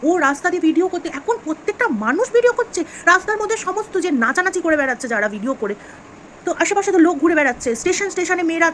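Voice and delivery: heated rant. Real, not acted. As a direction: pour out the outrage. Heated rant about bystanders. (রাগত উঁচু গলায় প্রতিবাদ)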